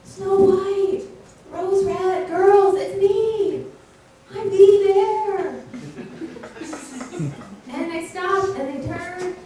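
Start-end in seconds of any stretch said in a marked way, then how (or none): 0.0-5.5 calling out. Acted. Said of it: "called out to them".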